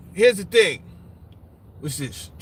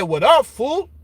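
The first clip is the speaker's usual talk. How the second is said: put-on Chicano accent; 4 semitones higher, slower than usual. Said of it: "I heard the accent and everything".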